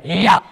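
sudden loud snatching yelp; imitated grab. Comic showing how falcons get you, snatching noise. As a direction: mimic talons clamping on. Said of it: "like that".

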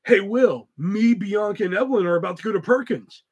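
breezy, rushing the end; offhand mock of Caleb's wording. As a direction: tell it like plans, not an invite. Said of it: "But what came out was".

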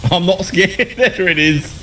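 imitating Natho. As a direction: parrot a friend's catchphrase. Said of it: "The Natho classic".

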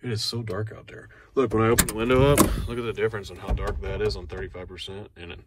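deadpan fake complaint about the dark tint; sarcastic. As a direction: play it dry, pretending it's pitch black. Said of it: "I'm being sarcastic".

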